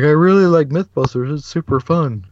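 a fan blurting praise, pitched high; high eager fanboy gush; mock gushing fan. Fan blurts praise to the hosts, high and eager.

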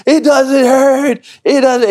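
put-on very high, loud, drawn-out amazed kid; imitated freaking out. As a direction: squeal it like an astonished little boy. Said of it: "freaking out".

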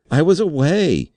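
very high, desperate wail; terrified cry. A narrator's reading. Undersecretary wringing his hands before the board, terrified. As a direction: cry out in helpless terror. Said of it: "he cried".

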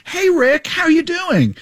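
bright, high, overly friendly greeting; high-pitched buddy-buddy hello; chummy Cindy Crawford. Retold or imitated. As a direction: greet him like an old high-school pal. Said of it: "She was like".

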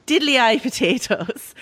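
slow, hammed-up bad Irish accent; mock Irish accent. Quoting a tweet about an actor's accent, mock Irish. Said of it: "his accent sounded a little too".

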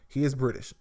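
is pushed with a falling tune in he is British; he is British. with is emphasized; stress on is. Shown as a demonstration. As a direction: warn them by leaning on is. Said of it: "So be prepared".

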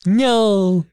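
loud, high drawn-out cry; hammed-up cry of protest; mock wail. Acted cry as killer runs away.

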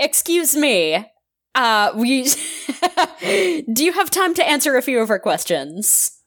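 stifled giggles mid-sentence; laughing through lines. Acted. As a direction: try to stay in character while laughing.

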